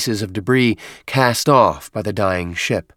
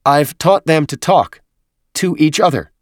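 excited Huragok; 7 semitones higher, 5 dB louder than usual. A narrator's reading. Huragok proudly reveals its achievement.

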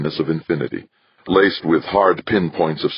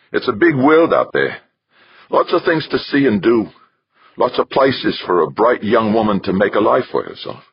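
lightly voiced father; 7 semitones higher than usual. Father encourages daughter to see the world, gruff. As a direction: push her out gently, gruff dad.

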